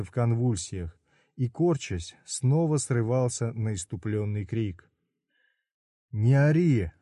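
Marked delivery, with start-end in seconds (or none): 6.1-6.9 loud, sharp shout; loud shouted command; shouted order. Acted. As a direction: cut him off with a yell. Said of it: "выкрикнул Фигелейн".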